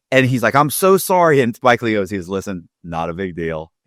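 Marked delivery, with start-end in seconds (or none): 0.6-1.4 high-pitched, earnest apology; flustered apology. Retold or imitated. Husband apologising to the director for his wife, flustered. 2.3-3.7 soft, low brush-off; easygoing reassurance. Retold or imitated. Director reassuring embarrassed husband, easygoing. Spike Lee waves off the apology.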